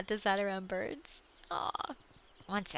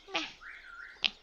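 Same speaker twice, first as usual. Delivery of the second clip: lazy cat bark; 12 semitones higher than usual. Retold or imitated. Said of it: "Like, it would barely come out".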